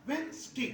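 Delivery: वेडनेसडे as wenz-day, d silent; correct pronunciation. Shown as a demonstration. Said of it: "तो actual pronunciation होगा". (सही उच्चारण, वेन्ज़डे)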